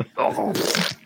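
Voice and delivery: wet, voiceless splattering noise; bowel noise. Acted. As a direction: imitate a messy bowel blowout. Acting out diarrhea overtaking the king.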